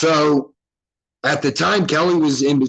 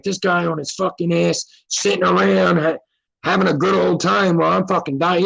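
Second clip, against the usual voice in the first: pitched-up mock rant, fuming at the doctor; retold angry yelling; 5 semitones higher than usual. Patient yelling about the absent doctor, furious. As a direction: vent like a starving patient, half-shouting. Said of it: "'Cause I'm yelling at this point".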